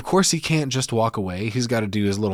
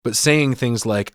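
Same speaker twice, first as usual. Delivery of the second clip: ordinary talk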